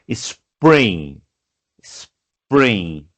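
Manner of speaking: spring said twice, falling; teacher drilling spring; repeated model word. Shown as a demonstration. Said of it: "teacher repeating word".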